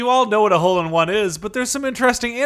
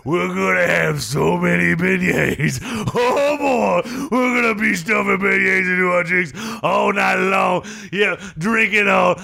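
mock rowdy celebration; slower than usual. Coach brags to hosts about the victory party, rowdy and slowed.

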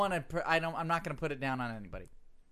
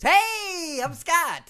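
much higher, louder chirpy greeting; happy voice; 14 semitones higher, 10 dB louder, much slower than usual. Pretend. Host voicing his cohost's cartoon self, mock cheerful. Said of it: "Scott's happy voice".

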